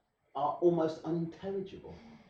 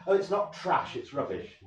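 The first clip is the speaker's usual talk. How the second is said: snobby; 3 semitones higher, 3 dB louder than usual. Retold or imitated. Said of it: "the English get very snobby about language".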